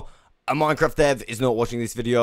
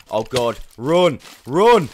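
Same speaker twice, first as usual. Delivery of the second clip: being chased; 6 dB louder, slower than usual. Real, not acted. Fleeing immortal mobs in game.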